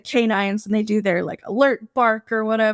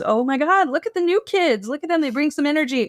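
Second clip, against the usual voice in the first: nosy neighbors; 5 semitones higher than usual. Retold or imitated. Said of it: "neighbors have come out to looky-loo".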